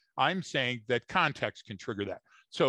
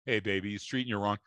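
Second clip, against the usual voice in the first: lower, lightly voiced smooth talker; a hint of a cheesy pickup line, voice dropped; smooth Rico Suave; 5 semitones lower, 3 dB quieter than usual. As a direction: play it like a would-be ladies' man sliding in. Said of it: "wanna be a Rico Suave".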